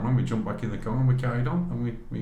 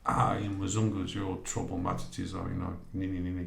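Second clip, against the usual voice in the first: lightly mimicked Swahili English, lower and softer; half-hearted Swahili English imitation of a soldier; Swahili English accent; 4 semitones lower, 6 dB quieter than usual. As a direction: mimic a Ugandan officer's Swahili English, softly. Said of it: "'cause it's Swahili English".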